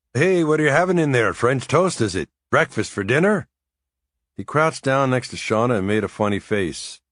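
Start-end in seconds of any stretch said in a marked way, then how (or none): 0.1-3.5 put-on young Irish lad voice. A narrator's reading. Martin voiced in story.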